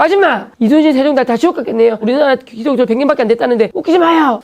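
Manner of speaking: high, scornful challenge; schoolboy jeering at the teacher; mocking heckle. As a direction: taunt the teacher.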